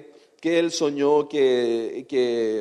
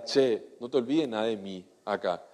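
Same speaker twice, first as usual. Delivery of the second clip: friendly plea; 5 semitones lower, 6 dB quieter than usual. Retold or imitated. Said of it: "así en buena onda".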